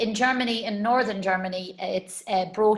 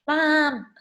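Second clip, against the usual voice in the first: son's mock protest; 7 semitones higher, 4 dB louder than usual. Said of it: "he's like".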